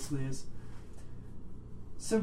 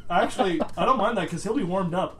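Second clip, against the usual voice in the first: normal talking voice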